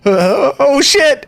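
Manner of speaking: high, slow, drawn-out alarm; a lightly voiced oh-no moment; startled curse. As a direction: prisoner spotting the lady, high and alarmed. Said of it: "and says".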